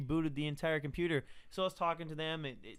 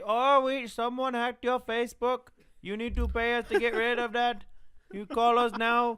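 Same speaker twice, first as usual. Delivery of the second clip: 1 mock scammer voice; 5 semitones higher, 4 dB louder than usual. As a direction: ham up the pushy tech-scam caller. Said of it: "And then somebody".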